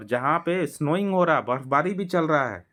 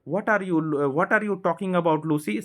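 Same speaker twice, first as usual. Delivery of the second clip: Susan's voice; 5 semitones higher, much slower than usual. Acted. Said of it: "said Susan".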